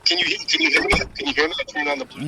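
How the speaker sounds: muffled, boxy phone sound; inside a fishbowl. Real, not acted. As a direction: voice trapped in a fishbowl. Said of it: "it sounds like you're in a fishbowl".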